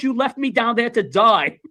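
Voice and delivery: slow, drawn-out acted accusation; retold reproach, stretched slow; accusing mother. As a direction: draw it out to lay on guilt. Retold mother accuses her son.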